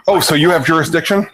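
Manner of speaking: incredulous challenge. Shown as a demonstration. A coach showing a prosecutor's indignant tone. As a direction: ask it like a doubting challenge on the street. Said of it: "incredulity doesn't have any place in court".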